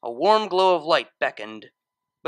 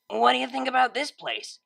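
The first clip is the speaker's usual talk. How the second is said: nonchalant; 8 semitones higher than usual. Acted. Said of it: "she asked nonchalantly".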